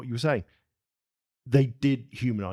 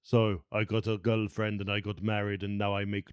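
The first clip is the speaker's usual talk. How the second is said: mock mopey Terminator; 2 semitones lower than usual. Mocking the Terminator sequel plot.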